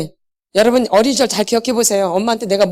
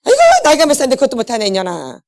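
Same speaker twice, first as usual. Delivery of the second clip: insulting parent. Retold or imitated. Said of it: "막 모욕을 주고".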